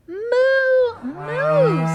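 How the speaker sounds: high, drawn-out playful moo; cow moo. Acted. Reading to kids, a high playful moo. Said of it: "says the cow".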